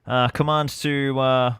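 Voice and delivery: loud, formal command over comms; radio commander voice. Acted. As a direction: call it in like an officer on the radio.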